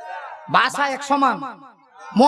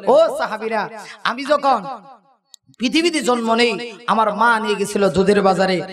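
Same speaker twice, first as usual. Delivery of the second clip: lightly voiced preaching lament. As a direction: plead to the companions as the Prophet. Preacher voicing the Prophet.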